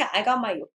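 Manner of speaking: "job" still said as "yo"; uncorrected job. Shown as a demonstration. Student failing to correct it, "job" still like "yob". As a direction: keep the y sound in place of the j in "job". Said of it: "안 고쳤다".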